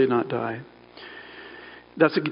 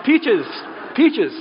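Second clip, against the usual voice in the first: delighted; 8 semitones higher than usual. Real, not acted. Preacher gushing about peaches.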